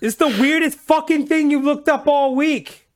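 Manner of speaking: high, loud mock-exasperated computer voice; a hammed-up annoyed Google scolding the user; Google yelling. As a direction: play the search engine fed up with you. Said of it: "This is Google yelling at me".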